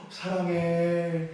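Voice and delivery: slow, drawn-out tender voice; loving ad line. Retold or imitated. Pastor quoting an ad where a parent tells a daughter I love you. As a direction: linger on it lovingly. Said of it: "이런 광고가 있어요".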